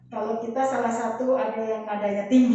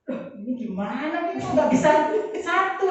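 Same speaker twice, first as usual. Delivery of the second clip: retold exasperation; 5 semitones higher than usual. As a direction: build to a mock-exasperated question. Acted exasperation at their differences. (menirukan keheranan kesal, makin tinggi)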